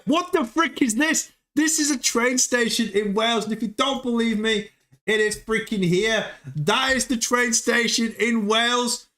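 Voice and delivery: can't believe it; incredulous. Real, not acted. Disbelief at long Welsh name.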